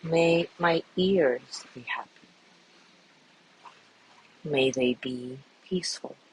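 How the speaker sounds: calm, measured voice with long pauses; guided meditation. Acted. Teacher guiding listeners through a loving kindness body scan, calm meditation voice. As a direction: lead them gently through each phrase, leaving space after it.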